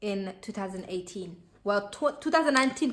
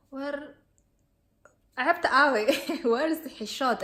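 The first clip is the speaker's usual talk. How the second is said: incredulous; 5 semitones higher, 4 dB louder than usual. Retold or imitated. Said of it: "And I was just like".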